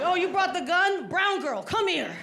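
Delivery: lightly voiced summons to a suspect; accusing officers. Security turning on the brown girl, mock accusing.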